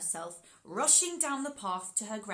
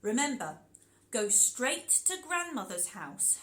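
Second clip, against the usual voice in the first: cautioning mother; 3 dB louder than usual. Acted. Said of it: "her mother cautioned".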